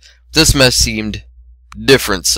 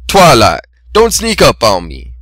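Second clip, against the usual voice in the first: startled snap; 4 dB louder than usual. A narrator's reading. Startled stallion snaps at Twilight.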